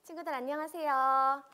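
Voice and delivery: big loud cheery hello; booming kids show opener. Acted. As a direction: greet the kids at full volume. Preacher greets children. (크고 밝은 어린이 인사)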